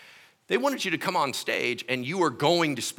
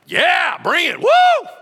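much higher, loud cheering yell; eager shout; 11 dB louder, much slower than usual. Retold or imitated. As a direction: whoop it like a pumped-up camp kid. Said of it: "I was like".

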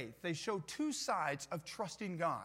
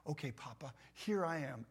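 put-on trusting child; 3 semitones lower, 3 dB quieter than usual. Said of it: "like a little child".

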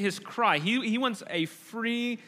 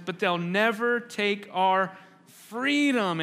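Wallace crescendo. Retold or imitated. Wallace rouses his outnumbered Scots before battle, slow and climactic. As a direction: stir the army to fight for freedom. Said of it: "this is where it reaches its crescendo".

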